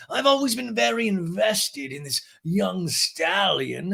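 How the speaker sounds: high, slow, posh voice; Lisa impression. Lisa praises James, high slow posh voice. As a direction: savor it like a grande dame.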